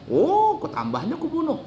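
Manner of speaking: high-pitched indignant outburst; acted outrage. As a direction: play the father outraged at the very idea. Acted father outraged over daughter.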